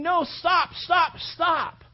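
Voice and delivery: high shouted no, stop; anguished shout. Acted. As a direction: disciples crying out at the whipping. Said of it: "they're sitting there going".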